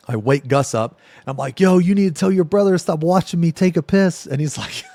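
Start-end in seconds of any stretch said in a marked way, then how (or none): 1.6-4.3 agitated. Retold or imitated. Waking friend, upset.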